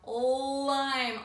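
"lime" with a held l; first sound stretched. Shown as a demonstration. Teacher isolating the first sound, held l on "lime". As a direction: linger on the l of "lime". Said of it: "Ol's the first sound".

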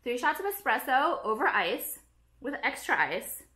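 slow recipe dictation; measured, word-by-word repeat for note-taking; dictating slowly. Shown as a demonstration. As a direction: read it out slowly for someone writing it down. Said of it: "You better write this down".

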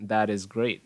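"That is great" with That's T softened to D; linked with D. Shown as a demonstration. Teacher shows T turning into D, linked words. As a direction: join "That is" into "tha-dis". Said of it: "Gần như biến thành âm D".

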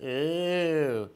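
slow, drawn-out worried owl voice; slow middle brother owl. Acted. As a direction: stretch out goodness, fretting. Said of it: "said Percy".

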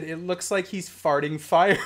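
breaking into wheezy laughter at the end; cracking up. Real, not acted. Streamer retelling the kid's funny remark, cracking up. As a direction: hold it together, then burst out laughing. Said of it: "just like I just did".

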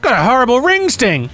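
high put-on complaining voice; mock agony. Friends joking about hot wings, mock-pained high voice. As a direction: moan it high, hamming it up. Parodying the song as burning complaint.

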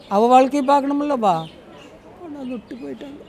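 on the verge of crying, voice dropping away; real tearful voice. Real, not acted. Old woman telling of being left at the shelter, tearful. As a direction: break into tears as you speak. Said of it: "அழுவாதீங்க, ஏன் அழுவுறீங்க?".

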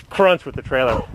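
breathless after heavy lifting; puffing between words; out of breath. Real, not acted. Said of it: "Too out of breath for doing nothing".

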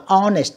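"honest" with the H left silent. Shown as a demonstration. Teacher showing pupils a mute letter, silent H in "honest". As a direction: start "honest" straight on the vowel. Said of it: "cũng không đọc".

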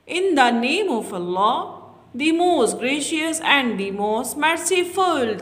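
very slow, word by word; slow dictation. Shown as a demonstration. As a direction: say it slowly so children follow. Slow translation for children. (बच्चों के लिए धीरे-धीरे)

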